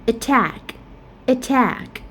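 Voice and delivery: "attack" stressed on TACK; light first syllable, strong end in "attack"; "attack" as a-TTACK, twice; second-syllable stress. Shown as a demonstration. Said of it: "we stress at the second syllable".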